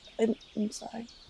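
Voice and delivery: embarrassed, soft whispered delivery.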